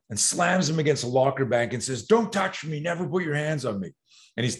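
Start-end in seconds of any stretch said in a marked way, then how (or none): 2.1-3.9 retold warning. Mitchell warns the bully.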